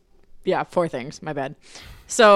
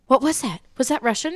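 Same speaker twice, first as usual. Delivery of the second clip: awed pupils; 7 semitones higher, 4 dB louder, faster than usual. Retold or imitated. Pupils react to hearing German.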